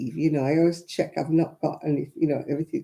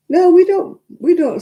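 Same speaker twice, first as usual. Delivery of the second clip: emphatic no; 13 semitones higher, 8 dB louder than usual. Real, not acted. Firmly denying to chat.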